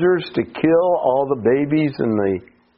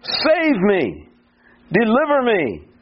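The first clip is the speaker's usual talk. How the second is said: high, imploring cry, not shouted; overwhelmed plea; 7 semitones higher, slower than usual. Retold or imitated. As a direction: call out for rescue on a raised pitch. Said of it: "He felt so overwhelmed that he says again".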